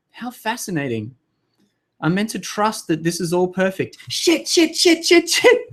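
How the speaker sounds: mock panic. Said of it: "I'm like".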